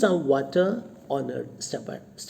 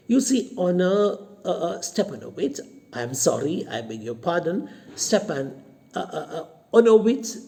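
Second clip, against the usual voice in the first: nervous stumbling; 3 semitones higher, faster than usual. Acted. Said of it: "he gets the name confused because he's nervous".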